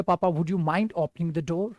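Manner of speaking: soft, slow, courteous request; very polite. Shown as a demonstration. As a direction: ask papa as gently as you can. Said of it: "और अच्छा है आपने बोल दिया". (पापा से बहुत अदब से पूछना)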